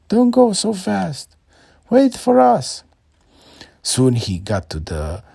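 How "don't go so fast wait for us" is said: even higher, louder desperate call; louder yelling. A narrator's reading. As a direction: yell harder as he gets away. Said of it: "yelling after him".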